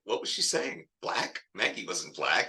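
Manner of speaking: confused Twyla. Acted. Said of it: "Twyla's sitting there like".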